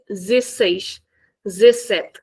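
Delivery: zesseis, zessete with the de swallowed; casual clipped dezesseis; dropped de. Shown as a demonstration. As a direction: skip the first syllable. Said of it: "many people skip the beginning".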